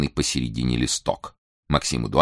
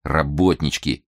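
slow irritated grumble; angry grumble; slower than usual. Acted. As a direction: grumble it angrily under your breath. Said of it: "сердито пробурчал".

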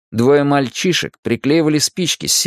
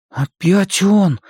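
slow, high-pitched exclamation; exhaled exclamation; 8 semitones higher, much slower than usual. A narrator's reading. Ben spots the clown once more, slow high exclamation. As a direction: let it out slowly, pitched up. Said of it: "выдохнул Бен".

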